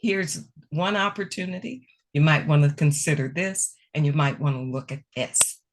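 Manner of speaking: gentle constructive suggestion; encouraging. Shown as a demonstration. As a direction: offer it kindly, as a helpful idea. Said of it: "No, what you say is".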